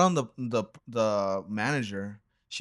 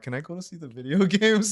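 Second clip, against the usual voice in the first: put-on high, eager little-kid voice with a laugh; a boy asking to browse the video games, high and eager; 8 semitones higher, 4 dB louder than usual. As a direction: pipe up like a kid begging to look around.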